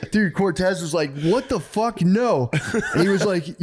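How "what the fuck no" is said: high retold outrage; appalled disbelief. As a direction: act out being horrified, pitch jumping up. Retold horror at killing people.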